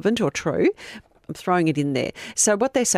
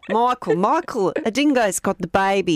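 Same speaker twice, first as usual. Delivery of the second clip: Meryl Streep; 3 semitones higher than usual. Retold or imitated. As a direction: call out like a frantic mother. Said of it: "Meryl Streep in Evil Angels".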